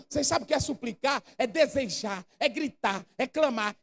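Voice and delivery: usual speaking voice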